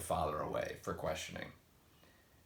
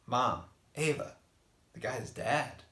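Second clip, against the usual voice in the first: in tears; 6 semitones higher, 5 dB louder than usual. A narrator's reading. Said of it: "said Justin in tears".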